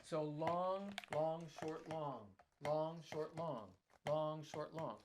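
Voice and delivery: "long" stretched, "short" brief; long-short rhythm. Shown as a demonstration. Spelling out the ride pattern, rhythmic long and short words. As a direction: chant the pattern, holding each "long". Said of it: "composed of long notes and short notes".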